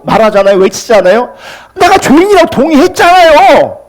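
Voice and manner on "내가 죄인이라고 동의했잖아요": high-pitched, exasperated retort; acted testy outburst, voice raised in pitch; irritated protest. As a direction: mimic an annoyed churchgoer snapping back. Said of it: "화를 내고 신경질을 내고 짜증을 내요".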